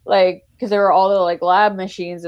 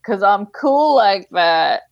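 laughing; 2 semitones higher, slower than usual. Retold or imitated. Retold boast, laugh heard.

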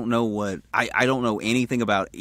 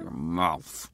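through gritted teeth; 7 semitones lower, 7 dB quieter than usual. Retold or imitated. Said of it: "talks to you between their teeth".

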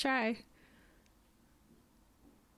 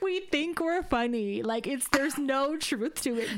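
slow, laughing disclaimer; 4 semitones higher than usual. Real, not acted. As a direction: reassure while still laughing. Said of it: "I'm just kidding".

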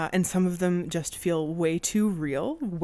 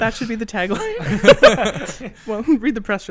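laughing; 4 semitones higher, 10 dB louder, slower than usual. Real, not acted. Joking about horror show tagline.

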